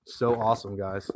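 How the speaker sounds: lightly put-on American accent; mock American accent. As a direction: play a cheesy American bragging. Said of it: "You like my American accent?".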